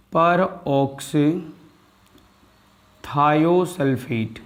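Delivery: peroxythiosulfate said very slowly, syllable by syllable; drawn-out pronunciation. Shown as a demonstration. Chemistry teacher to students, slowly spelling out peroxythiosulfate. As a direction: stretch every syllable of peroxythiosulfate. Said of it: "बोलो क्या बोला मैंने?".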